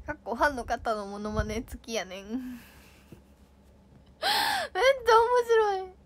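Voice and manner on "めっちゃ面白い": high-pitched speech through laughter; laughing hard. Real, not acted. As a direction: squeal it while cracking up. Laughing at fan comment.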